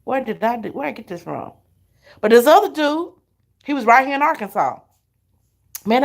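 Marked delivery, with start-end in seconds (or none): 0.1-1.5 inner panic. Retold or imitated. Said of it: "I was like".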